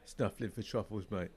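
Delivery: light Cockney put-on; Cockney accent. Customer jokes with the landlord, mild mock Cockney accent. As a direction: banter as a Cockney cider drinker. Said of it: "my cider accent is, is a Cockney one".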